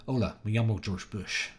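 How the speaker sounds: lightly imitated Southern-accented Spanish; Spanish with a hint of a Southern accent; George Bush. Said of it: "he even spoke Spanish with a little bit of it".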